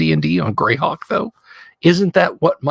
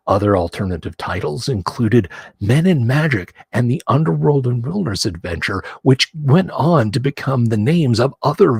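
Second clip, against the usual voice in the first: announcer voice; 4 semitones lower, 3 dB quieter than usual. Shown as a demonstration. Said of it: "Get my best announcer voice going on".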